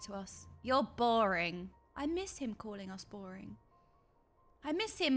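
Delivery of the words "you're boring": drawled, bored villain voice; Emmet-Selch impression. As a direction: lightly imitate a bored villain. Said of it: "what Emmett used to say".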